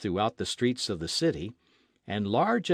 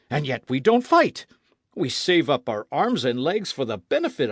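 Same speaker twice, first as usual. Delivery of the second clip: a warmonger pleading for one more war; fiery old gunner; 3 semitones higher, 5 dB louder than usual. Acted. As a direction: veteran artillerist ranting, louder. Maston continues his rant.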